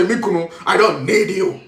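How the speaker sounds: a mild mock wife's dismissal; defiant wife. Wife dismissing her husband, lightly mocked. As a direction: push the husband away, half-mocking. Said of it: "You are trying to say".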